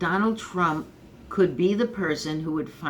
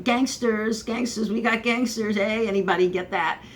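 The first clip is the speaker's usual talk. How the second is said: put-on higher, louder Brooklyn Italian accent exclaiming; Italian-accented neighbor shouting gangsters, pitched up; 6 semitones higher, 3 dB louder than usual. Joking neighbor spotting mob types, high Italian accent. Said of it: "you gotta put on the Italian accent".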